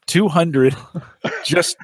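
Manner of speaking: laughing through the words; chuckling in disbelief. Real, not acted. Laughing at the huge number.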